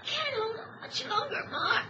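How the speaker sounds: weak, tearful words, slowing; fading, tearful. Acted. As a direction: fade out crying. Boy fading while choking.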